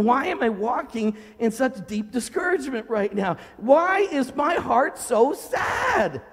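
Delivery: a touch of distressed bewilderment; anguished questioning. Acted. Acts out pleading honestly with God.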